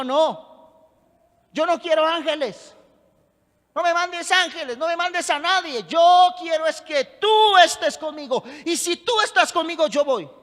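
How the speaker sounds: insistent plea to God, preacher's force; emphatic pulpit retelling of a plea; impassioned preaching. Acted. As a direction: press each refusal with conviction. Moses voiced in preaching.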